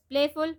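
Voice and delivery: "Playful" stressed on PLAY; careful teacher's "Playful", weight on PLAY; first-syllable stress. Shown as a demonstration. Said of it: "first syllable".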